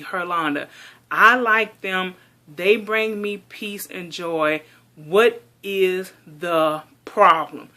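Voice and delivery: irritated retort, slowing to punched-out words; snapping. Retold or imitated. Daughter defending her doll hobby to mom, snapping. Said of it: "So I basically snapped at her".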